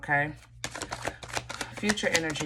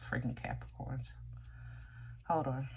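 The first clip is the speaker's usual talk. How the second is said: strained, much softer; throat clogged; 4 semitones lower, 12 dB quieter than usual. Real, not acted. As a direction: choke it out past a frog. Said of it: "Somebody's in my throat".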